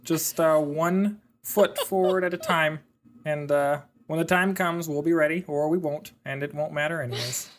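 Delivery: easygoing Canadian reassurance; mock Canadian accent. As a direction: soothe them like a calm Canadian neighbour. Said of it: "your Canadian accent".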